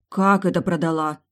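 громкий возмущённый вопрос; вспыхнуть от обиды за бабушкины вещи; возмущённо. A narrator's reading. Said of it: "возмутилась я". (дочь возмущается, что мать продала вещи)

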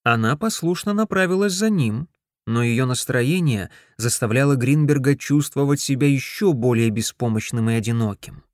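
ordinary delivery

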